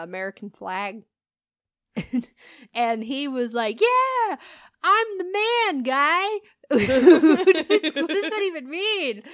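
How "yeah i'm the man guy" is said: high, loud bro boast; hammed-up bro crowing about himself; dudebro brag. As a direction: puff up like a flag-draped party dude. Mocking the flag-dressed dude.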